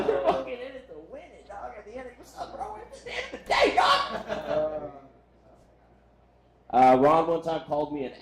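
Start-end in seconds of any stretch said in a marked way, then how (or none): 0.1-4.9 high put-on bro voice, hammed up; mock bro voice. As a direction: play a goofy dude-bro saying it. Bro-speak impression of Ron.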